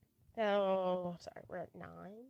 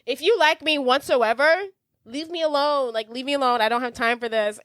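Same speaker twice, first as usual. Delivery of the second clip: exasperated retort; 5 semitones higher than usual. Retold or imitated. Acting out rebuff of stalker.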